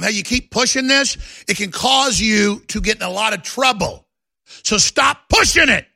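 threatening message to congressmen, rising to a shout; mock warning shout. Host voicing threat to politicians.

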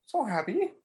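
high, soft, overcome voice; mock choked-up joy. Answering his bro's "you all right", blissfully overcome. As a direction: squeak it out, playing overcome with happiness. Acting overjoyed answer to worried friend.

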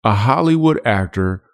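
slow, weighty title announcement; dramatic title read. Shown as a demonstration. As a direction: lay out each word like a trailer. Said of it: "let me get a title like this".

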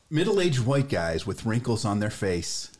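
slow, deliberate poem recital; poem reading. Acted. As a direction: read it out like a grand poem. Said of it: "gonna go ahead and read it".

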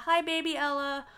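put-on high-pitched little hello to a baby; baby-greeting voice. Recapper greeting baby Ella, high baby-talk.

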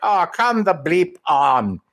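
high, drawn-out exasperated villain; acted exasperation. Host imitating villain looking up at an interruption, exasperated. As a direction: groan it out slowly in mock disbelief. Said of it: "he looks up and he's like".

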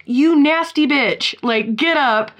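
lightly voiced angry husband; mock scolding husband. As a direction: scold her like a disgusted husband. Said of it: "And he's like".

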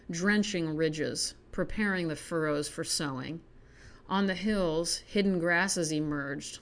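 measured, even poem recital; reading a poem to viewers, measured. Acted. Reads a poem aloud.

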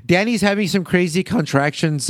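giggling still at the Jeep joke; laughing. Real, not acted. Still cracking up at the Jeep line while recapping, laughing. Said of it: "I don't know why I said it like that".

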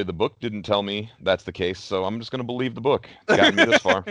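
dry sarcastic tone, laughing at the end; mock-earnest, cracking up. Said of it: "No, I'm being sarcastic".

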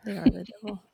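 hushed mock-serious whisper; conspiratorial whisper. Real, not acted. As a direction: whisper it like a dark secret. Joking agreement about evil wasps.

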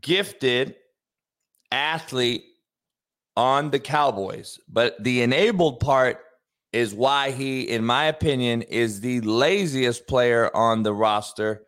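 slow, deliberate, low pauses; slow dramatic delivery. Acted. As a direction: draw it out for drama.

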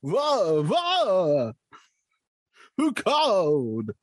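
slow spooky vampire greeting; lightly voiced vampire; Dracula voice. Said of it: "is this Dracula?".

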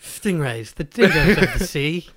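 hushed nature narration, half laughing; lightly done wildlife narrator; David Attenborough. Acted. Co-host copying a documentary narrator, Attenborough impression. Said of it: "David Attenborough".

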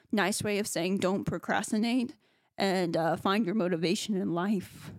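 shaky voice, stifling a laugh; trying hard not to laugh; holding back laughter. Real, not acted. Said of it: "I sound shaky".

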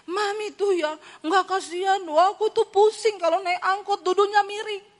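put-on petulant teen grumbling about the ride; whiny child complaint. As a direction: whine like a child sick of the minibus. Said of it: "dia pulang marah-marah".

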